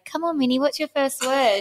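put-on coaxing baby talk. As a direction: coax the baby to say her first word. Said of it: "we say".

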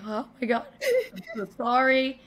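laughing through a flustered sorry; half-laughing mortified sorry; laughing apology. Real, not acted. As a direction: giggle out the apology. Apologizing while laughing in story.

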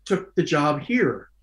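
high, slow exasperated whine. Retold or imitated. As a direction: moan it out, rising. Exasperated retold reply.

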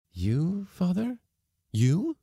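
high, rising disbelief; incredulous questions, pitched right up; astonished. A narrator's reading. Daughter amazed at her father's confession, astonished.

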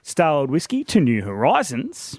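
ad read. Acted. Live read for whiskey sponsor.

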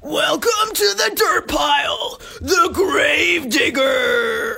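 slow, drawn-out high announcer shout; race announcer yell. Pretend. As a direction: bellow it like a dirt track announcer. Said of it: "classic Speedway Hornet car action announcing".

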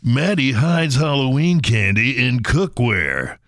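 slow dramatic ad read; deadpan campaign smear; attack ad voice. Pretend. Mock attack ad continues.

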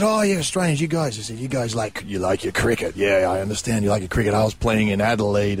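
a hint of Texas in a retold quote; half-hearted Texas accent. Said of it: "sorry about my Texas accent".

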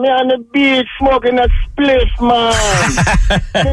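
lightly put-on Jamaican accent; hint of a Jamaican lilt. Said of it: "I'll speak in my Jamaican, um, accent".

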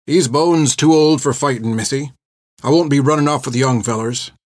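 a hint of a folksy old man; folksy Southern old-timer, lightly voiced; lightly voiced weathered old fighter.

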